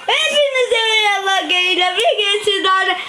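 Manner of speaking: sleep talking. Real, not acted. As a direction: shout the intro in a dream. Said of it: "Rüyasında konuşuyor".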